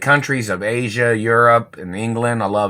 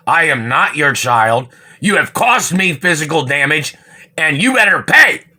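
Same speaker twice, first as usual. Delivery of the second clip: stern angry warning; 3 semitones higher, 4 dB louder than usual. Real, not acted. Warning the government people he's not their child, building anger. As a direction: lay down the law, building to a shout.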